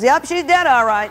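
put-on high, blithely matter-of-fact child voice; perky, offhand confirmation in a child's voice; chipper little boy. Cheerful grandson shrugs off hamster's death.

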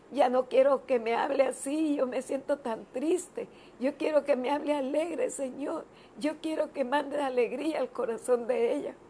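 mildly imploring, retelling a prayer; pleading prayer. Retold or imitated. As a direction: plead for someone in prayer, voice lifted. Retold pleading prayer for a friend.

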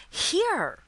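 high, loud, anguished exclamation; anguished high outcry; distraught cry. A narrator's reading. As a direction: blurt it out in distress. Lucy's distraught answer.

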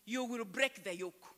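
ordinary delivery

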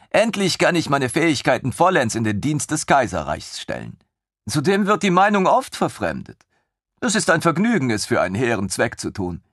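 put-on high, excited young officer; lieutenant thrilled by the idea; eager lieutenant. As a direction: bubble over with enthusiasm. Lieutenant scheming happily.

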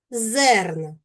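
"Зерна" with a clearly stressed, lengthened е; "Зерна", first syllable emphasised. Shown as a demonstration. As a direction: lean on the е in "Зерна" to show the stress. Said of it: "В наголошеній позиції буква е".

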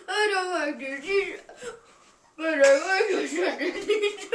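laughing. Real, not acted. Laughing mid-song.

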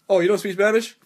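high, loud mimicked disbelief; mock incredulous question. Engineer to man who doesn't speak Spanish, mock incredulous. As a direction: imitate amazed, amused disbelief, rising at the end.

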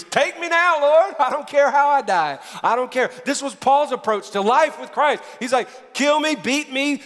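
high, fervent preaching at full force; yelling preacher. Real, not acted. Preacher carried away declaring his end secure, yelling. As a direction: cry it out with defiant confidence. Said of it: "I feel like I'm yelling".

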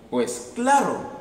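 high and very slow; obvious answer, stretched high; drawn-out high reply. Acted. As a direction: stretch it out wide-eyed. Crocodile answers.

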